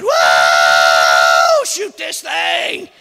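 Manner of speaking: loud woo then slow pleading shout; John begging his friends to shoot; yelping plea. Retold or imitated. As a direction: cry out like you're being mauled. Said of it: "John said".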